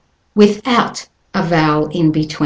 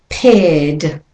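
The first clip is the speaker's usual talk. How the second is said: Paired without R, air vowel then D; British or Australian accent: drop the R in Paired; 3 semitones lower than usual. Shown as a demonstration. Teacher models British and Australian paired. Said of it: "For a British and Australian accent".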